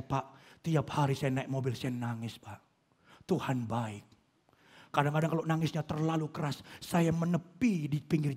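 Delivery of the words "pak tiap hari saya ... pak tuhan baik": tearful thanks. Retold or imitated. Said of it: "Ceritanya sama saya".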